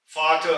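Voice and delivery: फाट with the r left silent; German word demo. Shown as a demonstration. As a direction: say फाट, dropping the r. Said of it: "हम इसको कहेंगे". (फाट, आर की आवाज के बिना)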